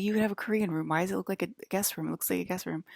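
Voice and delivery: quick, mildly agitated retold questioning; mock freak-out. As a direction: imitate someone getting worked up, easing off by the end. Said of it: "he's, like, freaking out".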